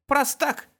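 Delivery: put-on high little boy sighs the word; a small know-all tutting at his twin; sighing child. A narrator's reading. Miles sighing at his brother in a high childish voice. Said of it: "вздохнул Майлз".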